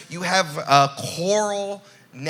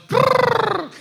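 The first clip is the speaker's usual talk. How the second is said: shivering; 4 dB louder than usual. Pretend. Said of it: "And Nani goes".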